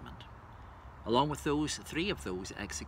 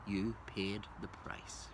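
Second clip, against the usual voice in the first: softer echo; 6 dB quieter, slower than usual. Acted. Repeated line in poem.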